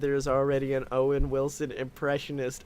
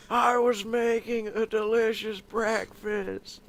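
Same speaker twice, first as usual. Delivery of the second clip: Owen Wilson impression; 5 semitones higher, slower than usual. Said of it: "turns into Owen Wilson".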